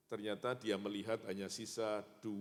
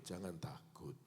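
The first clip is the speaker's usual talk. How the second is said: whispered, slow comfort; preacher demonstrates whispering comfort to a neighbour; 3 semitones lower, 8 dB quieter, slower than usual. Shown as a demonstration. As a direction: whisper it to the person beside you. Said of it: "bilang begitu".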